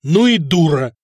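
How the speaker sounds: each word crisp and loud; distinct. A narrator's reading. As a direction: say it clearly and loud. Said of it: "отчётливо сказал Самослав".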